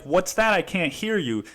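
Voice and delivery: exasperated, acting out not hearing; pointed can't-hear-you. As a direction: call over a crying baby. Acted out, over a wailing baby.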